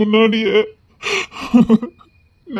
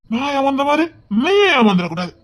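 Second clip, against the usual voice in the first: higher, breaking into tears; crying plea; 5 semitones higher than usual. Acted. Heartbroken Vikram crying as he warns Rohini. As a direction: plead through sobs. Drunk man's tearful warning.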